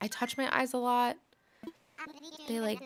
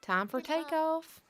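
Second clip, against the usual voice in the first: announcer-style takeoff call; 6 semitones higher, slower than usual. Pretend.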